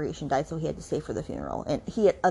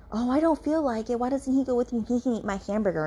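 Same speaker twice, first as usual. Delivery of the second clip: higher, lightly voiced breezy grandma; 6 semitones higher than usual. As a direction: toss it off like a sly old grandma. Grandma ducking out of drive.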